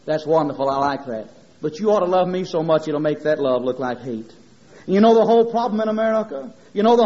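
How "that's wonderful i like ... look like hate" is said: low, measured divine voice; God/character. Retold or imitated. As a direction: answer gently in a lowered voice. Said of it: "And I seem to hear God say".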